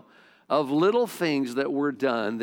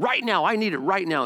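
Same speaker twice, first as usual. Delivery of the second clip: raised-pitch, restrained imitation of yelling; mock yelling dad; 5 semitones higher than usual. Frustrated dad demands a wrench from his son, mock yelling. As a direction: insist urgently like an impatient father. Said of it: "he was yelling and throwing things".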